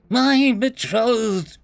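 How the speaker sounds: slow, high, firm insistence; insistent. Acted. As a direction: insist on every word. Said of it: "she insisted".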